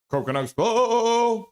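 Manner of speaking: high cheer with held ending; fan cheer. Acted. Streamer voicing a viewer's team cheer, fan cheer. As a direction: chant it and hold the last word up high.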